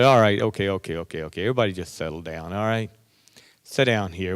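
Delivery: calm the room down gently. Retold or imitated. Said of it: "take things very calmly".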